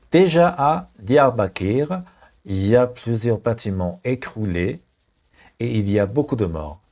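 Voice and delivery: slow, careful French read for learners; slow dictation. Shown as a demonstration. Teacher reading to learners, slow careful read. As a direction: read it out slowly to the class. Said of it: "teacher reads French sentence slowly".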